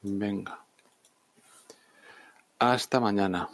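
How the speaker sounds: drowsy, fading sign-off; nodding off, barely awake; sleepy. Real, not acted. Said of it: "Estoy que me caigo de sueño".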